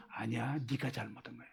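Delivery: very low, hushed rebuke; quiet firm correction. Acted. Preacher voicing God answering the excuse-makers, quiet and firm. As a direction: drop far down and correct softly.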